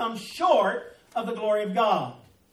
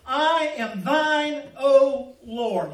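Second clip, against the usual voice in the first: lingering slow prayer line, louder on Lord; slow earnest quote; 3 semitones higher, 5 dB louder, much slower than usual. Retold or imitated. Preacher quoting the hymn's cry, slow and earnest. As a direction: draw out the hymn words slowly and earnestly. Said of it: "The first point she says is".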